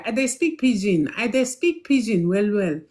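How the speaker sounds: lightly put-on Nigerian Pidgin lilt; a touch of Nigerian Pidgin. Shown as a demonstration. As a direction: slip into Naija Pidgin for show. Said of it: "I'm speaking Nigeria".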